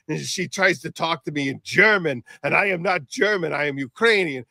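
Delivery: high-pitched imitated complaint; exasperated mock rant. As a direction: rant like a fed-up man, pitched well up. Acting out the brother's complaint.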